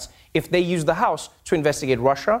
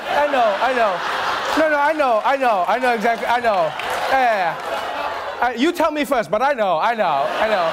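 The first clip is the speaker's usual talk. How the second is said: Trump impression; 3 semitones higher than usual. Mimicking Trump's I know.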